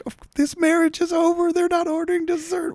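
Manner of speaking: very high, put-on voice of disbelief; mock-incredulous waiter. Waiter reasoning about the failing marriage, very high mock disbelief. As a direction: squeak it like a baffled waiter. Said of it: "It's like".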